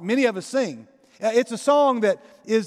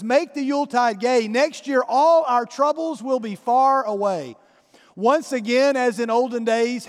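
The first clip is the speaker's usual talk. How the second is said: recited lyrics. Retold or imitated. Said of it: "here are the lyrics that the singer actually sings".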